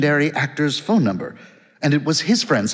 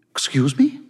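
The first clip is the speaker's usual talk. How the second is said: shocked, breathless whisper. A narrator's reading. Woman on the phone taken aback by Ebling, shocked whisper. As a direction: gasp the question out in disbelief. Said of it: "her voice shocked".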